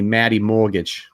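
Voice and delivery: lightly imitated Boston accent; a touch of Boston in the vowels. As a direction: say it like a buddy from Boston, dropping the R. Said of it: "with that Bo-, Boston accent".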